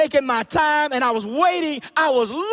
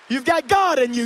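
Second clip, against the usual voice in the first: preached refrain; 3 semitones higher, 3 dB louder than usual. Acted.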